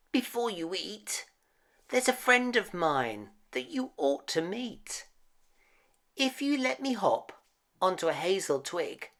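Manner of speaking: high, quick squeaky mouse voice; clever little mouse. Acted. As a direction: chatter fast like a crafty tiny mouse. Mouse voiced, tricking the child.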